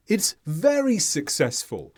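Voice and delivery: VERY picked out over SUCCESSFUL; stress on VERY. Shown as a demonstration. Teacher explaining highlighting to learners, stressing VERY. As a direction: raise the tone on VERY to highlight it. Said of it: "So very is emphasized".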